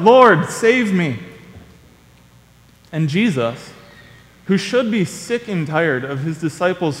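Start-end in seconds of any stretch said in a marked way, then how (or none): 0.0-1.2 loud, high, drawn-out plea; crying out. Acted. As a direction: call out slowly for rescue, acted. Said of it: "immediately he cries out".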